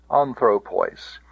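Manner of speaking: "Anthropois" with THRO stressed, falling end; accent the middle of "Anthropois"; "Anthropois" as an-THRO-pois; stress on penult. Shown as a demonstration. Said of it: "no further than the penult".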